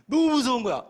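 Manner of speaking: 높고 크게 외치는 공포; loud, high cry of fright; scared exclamation. Retold or imitated. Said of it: "소름 끼쳐". (폴리스 라인 보고 놀라 크게 외치는 목소리)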